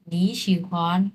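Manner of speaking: নি শিহুয়ান slow, নি in rising second tone; tone sandhi. Shown as a demonstration. Teacher showing the changed tone on নি. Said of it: "এরকম উচ্চারণটা হবে".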